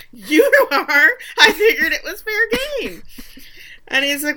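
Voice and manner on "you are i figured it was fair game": high-pitched, loud mock defense; imitating an indignant comeback; defensive retort. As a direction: protest it in a raised, exaggerated voice. Acting his defensive comeback in argument.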